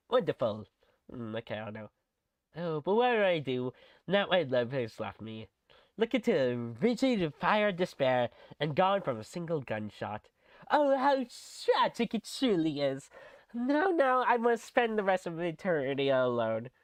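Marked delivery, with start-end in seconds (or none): 4.1-11.2 dramatic acting. Shown as a demonstration. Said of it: "How's that sound?". 13.5-16.7 dramatic acting. Shown as a demonstration. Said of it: "How's that sound?".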